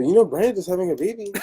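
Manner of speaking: put-on playful thick Mexican accent; heavy Mexican accent. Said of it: "I hit her with the heavy Mexican accent".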